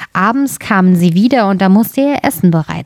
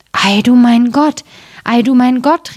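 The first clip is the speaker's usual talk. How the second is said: amazed cry; 4 semitones higher than usual. Acted. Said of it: "riefen sie".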